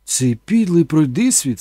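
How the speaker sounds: scornful. Acted. Mother cursing the man who left her, slow and scornful. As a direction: drag out each insult. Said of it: "сказала мама".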